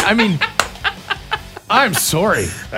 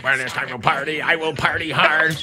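softer robot voice; 3 semitones lower, 4 dB quieter than usual. Retold or imitated. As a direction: intone it like a robot. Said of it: "I'm gonna get my best robot voice on here".

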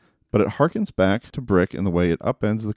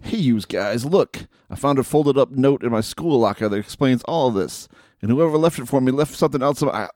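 put-on tough kid voice; 4 semitones higher than usual. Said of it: "Let me just do my normal voice".

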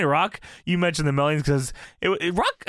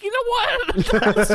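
laughing through quote; 3 dB louder than usual. Retold or imitated. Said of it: "And I'm like".

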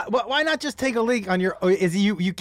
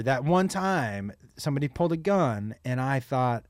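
whispering; 8 semitones lower, 6 dB quieter than usual. Real, not acted. Quiet retelling of gun moment.

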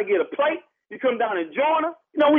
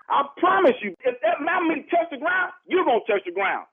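higher, raised angry warning; heated threat; 3 semitones higher than usual. Real, not acted. Man defending his barbecue from the neighbor, heated threat. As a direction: warn him off, voice going up.

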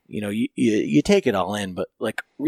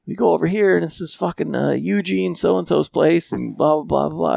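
higher mock Frank naming places; imitating Frank; 7 semitones higher than usual. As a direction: breeze through the names like Frank. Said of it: "He says".

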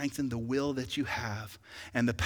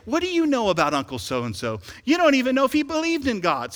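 much higher and louder; a soaring preacher's cry; preaching shout; 10 semitones higher, 6 dB louder than usual. Real, not acted. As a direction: peak the rebuke at full force. Preacher's peak outburst.

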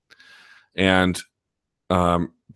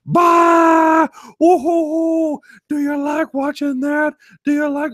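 much higher, cackling villain taunt, slow; fake maniacal laugh; 4 dB louder, slower than usual. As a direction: cackle and mock her like Gargamel catching Smurfs. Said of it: "fake maniacal Gargamel catching the Smurfs kind of laugh".

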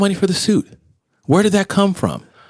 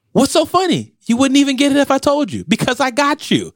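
gloating Joker; 8 semitones higher than usual. Retold or imitated. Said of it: "he's like".

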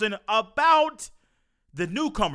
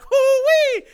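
high, loud whooping hoo-wee; shouted celebration cry of an overjoyed dad; 7 dB louder than usual. Retold or imitated. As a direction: whoop it out like the best news ever. Imagined joy in the meeting.

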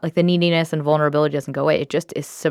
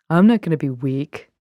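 lightly put-on deep, tough voice; deeper voice. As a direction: make a child's vow in a mock-deep voice. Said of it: "Just had to do a deeper voice".

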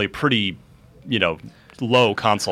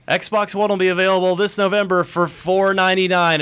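lightly voiced, higher-pitched presenter; mock announcer; 6 semitones higher than usual. Host re-enacting the Xbox press briefing, mock announcer. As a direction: announce it in a sustained, raised pitch.

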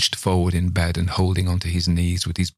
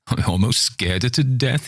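cackling; 5 semitones higher than usual. Acted. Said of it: "cackling again".

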